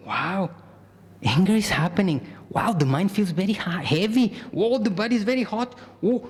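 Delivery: rising amazed noticing; curious wonder. Shown as a demonstration. Teacher demonstrating the second option, amazed and curious. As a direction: marvel at each sensation. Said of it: "the other one is".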